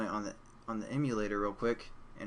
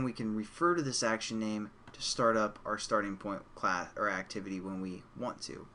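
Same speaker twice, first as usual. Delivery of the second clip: normal talking voice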